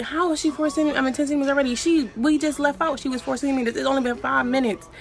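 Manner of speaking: high, disbelieving questions; can't believe it's time already; incredulous. Retold or imitated. Shocked at sudden full dilation.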